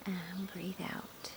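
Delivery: soft, slow, whispery release; meditative exhale cue. Real, not acted. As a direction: ease the words out on a long breath.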